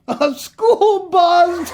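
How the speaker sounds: high, slow, triumphant punchline; hammed-up joke reveal. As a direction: land the joke big and slow.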